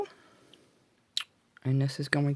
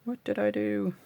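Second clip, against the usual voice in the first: much higher, falling at the end; high-pitched self-questioning; 8 semitones higher than usual. Real, not acted. Crafter asking herself about a snag, high-pitched. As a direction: wail it lightly up high.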